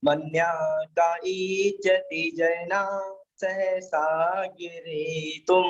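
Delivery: slow, measured Sanskrit shloka chant; full verse recitation. Shown as a demonstration. Teacher reciting the full shloka for students to listen closely, slow. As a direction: recite the whole shloka slowly and precisely. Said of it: "पूरे श्लोक का उच्चारण किया जा रहा है".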